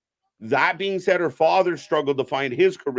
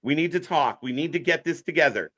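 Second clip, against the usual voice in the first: sneering fake sweet; lightly voiced queen bee; Mean Girl voice. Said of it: "your Mean Girl voice".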